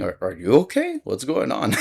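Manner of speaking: lightly mocking return question; questioning it back. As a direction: toss the concern back at them. Turns her question back on her.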